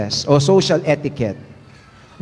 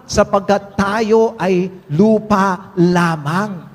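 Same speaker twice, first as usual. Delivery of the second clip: quoted lyric; slower than usual. Retold or imitated. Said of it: "Sabi nga ni Rico J. Puno".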